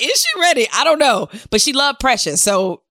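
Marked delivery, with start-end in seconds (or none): 0.0-0.7 high, exaggerated "Is she ready?"; mock wonder. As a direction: ask it with playful doubt. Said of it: "I'm like".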